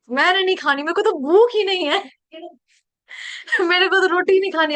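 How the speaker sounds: put-on a light childish whine, refusing food; mock pouty child refusing dinner; imitating a fussy child. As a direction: play the sulky kid who won't eat roti. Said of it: "ऐसे करते ना कहीं".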